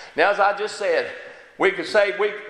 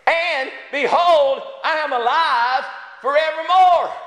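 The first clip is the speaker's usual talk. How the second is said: proclaiming; 6 semitones higher than usual. Acted. Scripture proclaimed.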